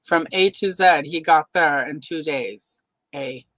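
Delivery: lightly put-on Canadian accent, saying zed and eh; attempted Canadian accent. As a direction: have a half-hearted go at sounding Canadian. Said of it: "that's all I have for Canadian accent".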